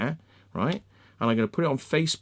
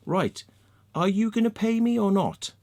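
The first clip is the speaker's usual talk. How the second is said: raised, heated demand for pay; angry demand; 8 semitones higher than usual. Retold or imitated. To the researcher, an angry demand to get paid. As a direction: push hard for the money, angrily. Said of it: "I got really angry".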